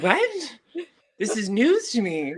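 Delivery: laughing disbelief, pitched high. Real, not acted. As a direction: laugh through the protest. Laughing at being called Canadian.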